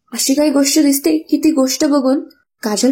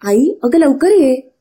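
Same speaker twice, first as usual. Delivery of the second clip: slow, louder call; calling loudly; 2 semitones higher, 4 dB louder, slower than usual. Acted. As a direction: draw it out to summon mom. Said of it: "मोठ्या मोठ्याने ओरडू लागते".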